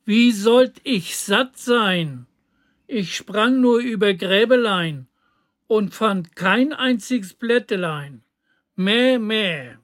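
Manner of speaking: lightly voiced complaining goat; a touch of a bleating goat. (leicht gespielte klagende Ziege)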